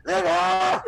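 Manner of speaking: high, loud mock holler; high-pitched shout breaking into laughter; imitated yell. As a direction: yell it out like a sudden morning shriek. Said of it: "you hear somebody yell".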